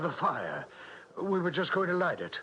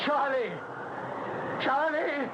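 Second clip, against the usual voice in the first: calling out; 11 semitones higher than usual. Acted. Calling son outside the house.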